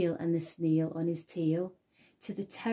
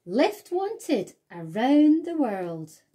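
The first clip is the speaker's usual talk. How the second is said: slow, louder sign-reading voice; slow announcement; 5 semitones higher, 7 dB louder, slower than usual. A narrator's reading. The snail's trail spelling out a request, slow and proud. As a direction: read out like a notice.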